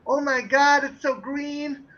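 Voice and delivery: a hint of an American tourist, slow and gushing. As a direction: gush like a wide-eyed tourist. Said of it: "touristy kind of type".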